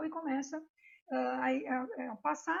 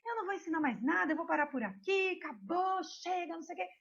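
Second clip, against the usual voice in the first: Shiva; 4 semitones higher, faster than usual. Acted. Angry teacher refuses to go on teaching his wife, mock scolding. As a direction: rattle off a huffy, half-hearted scolding. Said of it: "dá-lhe uma bronca".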